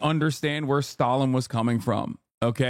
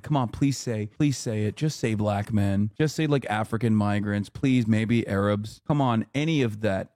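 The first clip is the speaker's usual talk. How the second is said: lower, pleading mock beg, lightly voiced; a hint of a desperate interviewer, lower and wheedling; begging interviewer; 6 semitones lower than usual. Streamer voices the interviewer begging for a soundbite, low and pleading.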